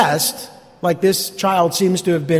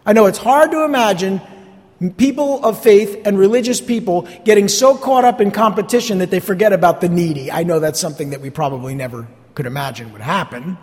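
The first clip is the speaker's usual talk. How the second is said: dry mock sincerity, faster at the end; sarcastic. Real, not acted. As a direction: say it with obvious irony. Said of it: "I'm being sarcastic".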